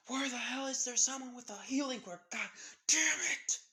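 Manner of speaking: high, loud desperate yell. A narrator's reading. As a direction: holler for help, ending in a cursing scream. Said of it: "yelling out, saying".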